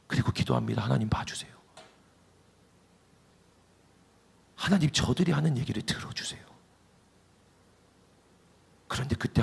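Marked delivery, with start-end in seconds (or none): 0.8-6.4 hushed, pleading whisper to God; whispered prayer. Acted. A king whispering his plea before the altar. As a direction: breathe the prayer, barely voiced.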